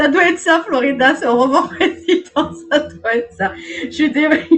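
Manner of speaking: words breaking up with laughter while talking. Reading cards and breaking into uncontrollable laughter: laughing while talking. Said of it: "Je suis morte de rire".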